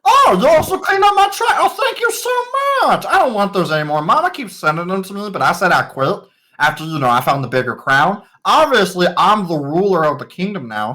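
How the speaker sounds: put-on a spoiled young king gushing at his servants; gushing boy king. Young king gushes over his servants, high and eager. King NPC thanks party.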